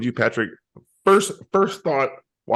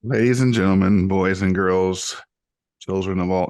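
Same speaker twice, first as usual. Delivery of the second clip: light ringmaster announcement, held back; ringmaster intro; 3 semitones lower, 3 dB louder than usual. Pretend. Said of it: "We're going hard".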